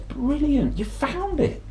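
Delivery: mum's high, excited cry of relief; delighted mum. Retold or imitated. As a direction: squeal with joy at the found head. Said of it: "Mum said".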